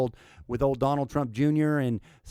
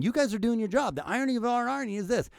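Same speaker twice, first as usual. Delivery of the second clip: higher mock Biden voice; 5 semitones higher than usual. Commentator mocking Biden's answer to reporters, higher. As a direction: parody his line to the press, a bit higher. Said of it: "What he means by that is".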